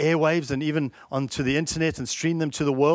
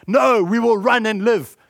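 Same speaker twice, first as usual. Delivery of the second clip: put-on frightened young soldier; 5 semitones higher, 6 dB louder than usual. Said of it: "a young soldier says".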